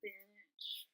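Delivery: barely audible aside; hushed retold reaction; stunned disbelief. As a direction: breathe it out quietly, dumbfounded. Stunned response to roommate.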